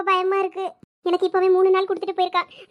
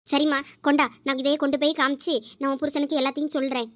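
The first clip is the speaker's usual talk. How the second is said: put-on lightly lowered, earnest old servant; old servant woman; 3 semitones lower than usual. Old maid vowing to find the husband, lightly lowered earnest voice. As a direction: speak as a loyal old maid, resolved.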